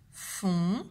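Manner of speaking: "fontaine" split into three long syllables, fon-tai-ne. Shown as a demonstration. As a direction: dictate "fontaine" very slowly, holding each sound. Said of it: "écrire la première syllabe". (« fontaine » dicté lentement en trois syllabes séparées)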